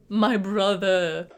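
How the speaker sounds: slow, drawn-out mock lament; mock grief. Smoke over his bitten brother Stack, mock grief. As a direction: stretch it out in hammed-up anguish.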